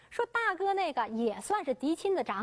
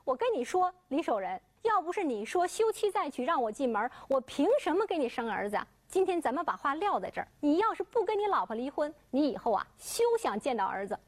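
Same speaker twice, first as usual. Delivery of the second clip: unrelenting threat; 3 semitones higher than usual. Acted. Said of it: "柳荷花也是不依不饶".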